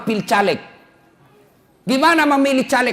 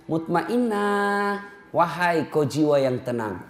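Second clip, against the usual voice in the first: gentle calling; 2 semitones lower, 6 dB quieter, slower than usual. Retold or imitated. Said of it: "setiap orang memanggilnya".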